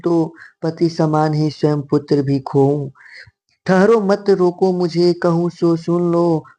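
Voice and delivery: slow, drawn-out poem recitation; verse read aloud. Acted. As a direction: read the verse slowly, stretching each phrase. Reads verse passage aloud.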